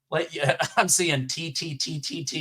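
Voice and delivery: stifled giggles. Real, not acted. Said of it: "I'm trying not to laugh".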